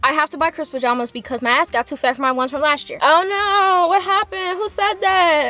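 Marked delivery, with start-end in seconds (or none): 3.0-5.5 mock shock. Mock shock at own joke.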